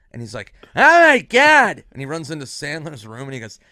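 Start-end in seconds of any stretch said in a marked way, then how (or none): 0.7-1.8 slow, high, loud gasp of alarm; mock panic. Norm hearing there's a gun, loud slow mock panic. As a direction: drag it out in horror.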